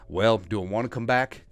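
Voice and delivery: light, mock Mississippi accent; a touch of Mississippi accent, pondering aloud. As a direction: imitate a coach with a slight Mississippi accent. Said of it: "has a Mississippi accent".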